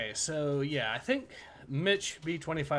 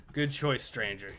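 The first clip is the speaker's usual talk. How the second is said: Resident Evil merchant voice. Retold or imitated. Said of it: "Resident Evil Four merchant voice".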